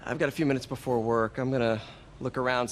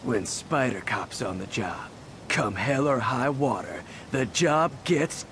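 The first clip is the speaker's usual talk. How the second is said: mock hero catchphrase. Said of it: "Nope, nope, nope".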